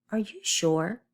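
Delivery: "sure" lifted at the end; question intonation. Shown as a demonstration. Teacher showing children a question mark, "sure" rising. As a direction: ask it, letting "sure" rise. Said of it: "you're asking a question".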